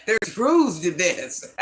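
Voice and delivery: slow, laughing through the words. Real, not acted. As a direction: laughs while laying down the rule. Laughing while scolding viewers.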